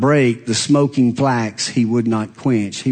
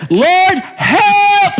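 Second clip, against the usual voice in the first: high pleading cry for help; hammed-up desperate plea; mock scream; 5 dB louder than usual. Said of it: "she's screaming".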